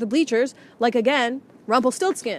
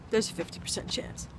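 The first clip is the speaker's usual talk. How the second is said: whisper; 2 semitones lower, 13 dB quieter than usual. Real, not acted. Repeated whispered.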